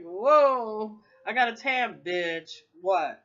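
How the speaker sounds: loud mock challenge; loud sassy comeback. To people calling her names, a loud brash retort. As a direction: shout it high and brash, daring a fight. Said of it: "I was like".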